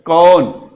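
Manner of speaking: कौन drawn out on its vowel, loud; vowel demonstration. Shown as a demonstration. Teacher showing pupils the sound in a word, drawn-out. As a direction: stretch the vowel inside कौन. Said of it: "ओ इस प्रकार से आएगा".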